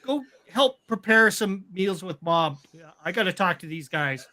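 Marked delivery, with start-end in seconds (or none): 0.1-2.6 calling out. Acted. Father calling his kids away.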